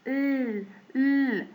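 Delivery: long drawn "ال" sound; tongue-held L. Shown as a demonstration. Teacher demonstrating letter L, long held "ال". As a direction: hold "ال" with the tongue hung up in place. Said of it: "لساننا متعلق فيها".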